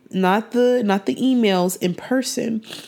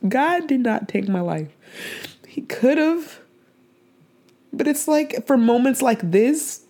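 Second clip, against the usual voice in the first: higher, strained with tears; choked up; 4 semitones higher than usual. Real, not acted. Telling listeners God spared her life, choked up. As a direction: fight back tears as you speak. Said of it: "I'm just really emotional".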